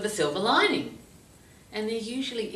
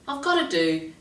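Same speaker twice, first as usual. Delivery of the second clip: grumpy complaint; 7 semitones higher, 5 dB louder than usual. Retold or imitated. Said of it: "she was very grumpy".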